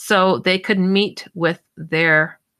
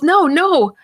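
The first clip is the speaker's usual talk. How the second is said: retold panic; 8 semitones higher, slower than usual. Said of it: "she was just sounding in a panic".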